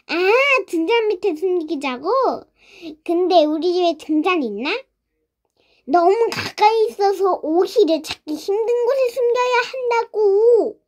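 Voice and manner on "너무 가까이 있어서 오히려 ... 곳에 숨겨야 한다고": exasperated explanation, rising high at the end; 답답한 설명. Acted. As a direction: spell it out impatiently, drawing out the last word. 답답해하며 작전 설명. (답답한 듯 끝을 높고 길게)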